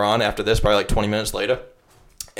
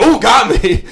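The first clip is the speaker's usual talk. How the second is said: much higher, louder sarcastic "got me"; mock caught; 12 semitones higher, 8 dB louder, slower than usual. Speaker mocking being caught by the drunk girl, high and loud. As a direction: toss it off like you've been busted. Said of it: "I was like".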